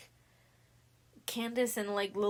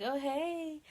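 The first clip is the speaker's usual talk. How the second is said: mock greeting; 7 semitones higher than usual. Acting Sam's greeting back to Lily.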